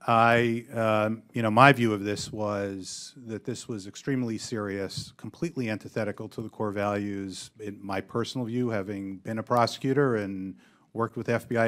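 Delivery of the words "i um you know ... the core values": raised volume at first, then easing back; speaking up. Real, not acted. Witness repeats the answer after being asked, speaking up. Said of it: "Can you speak up, please?".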